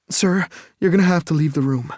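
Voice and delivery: firm, high, urgent order; urgent nurse. Acted. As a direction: clear the room now.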